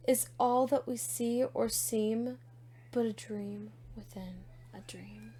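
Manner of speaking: measured, dramatic poetry reading; poem recitation. Acted. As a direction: recite with weighty pauses between phrases. Reads a poem aloud.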